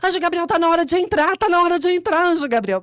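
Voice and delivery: bem alto e agudo, afobada; apelo aflito. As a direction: grita que está na hora, aflita. Apressa o amigo, em pânico. (pressa aflita com o amigo)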